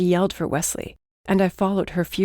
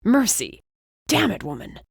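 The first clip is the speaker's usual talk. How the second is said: calling out; 4 semitones higher than usual. Acted. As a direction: call after her in frustration. He calls after Mercy.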